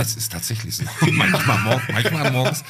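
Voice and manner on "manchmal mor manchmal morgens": laughing. Real, not acted. Laughs at own story.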